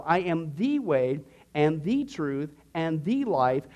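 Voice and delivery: slow, with "the" weighted before each noun; stress on THE. Shown as a demonstration. Quoting Jesus to teach exclusivity, stress on THE. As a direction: lean deliberately on every "the". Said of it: "notice the article is in between each one".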